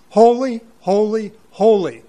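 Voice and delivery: each "Holy" set apart and leaned on, falling at the end; emphatic triple holy. Shown as a demonstration. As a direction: hammer home "Holy, holy, holy" one by one. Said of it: "no other attribute of God repeated three times".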